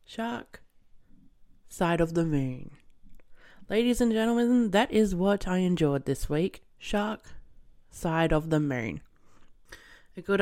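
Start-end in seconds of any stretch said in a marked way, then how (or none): 0.0-2.7 slow title with a pause after Shark; dramatic title announcement. Shown as a demonstration. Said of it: "announcing title with pauses". 6.8-9.0 slow title with a pause after Shark; dramatic title announcement. Shown as a demonstration. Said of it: "announcing title with pauses".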